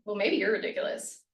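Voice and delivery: mildly defensive comeback; defensive retort. Acted. Example reply to a complaining colleague, mildly defensive. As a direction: toss it back as a small jab. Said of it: "this is our defensive response".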